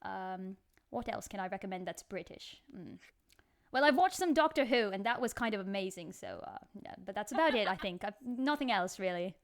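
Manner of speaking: put-on amateur British accent in casual chat. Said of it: "continue speaking in this accent".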